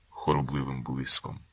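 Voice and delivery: ordinary delivery, nothing marked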